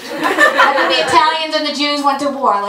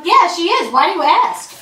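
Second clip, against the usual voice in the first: Jesus voice; 6 semitones higher, 3 dB louder than usual. Acted. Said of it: "And Jesus is like".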